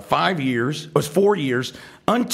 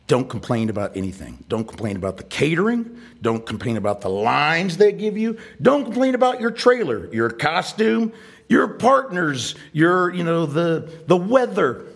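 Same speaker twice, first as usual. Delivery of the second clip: retold advice, each warning more emphatic; building insistence; 4 semitones higher than usual. Friend warns a new actor off complaining, increasingly insistent.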